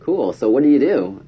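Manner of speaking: high, chirpy oh work; forced cheer. Retold or imitated. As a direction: keep the chat alive brightly. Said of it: "I'm like".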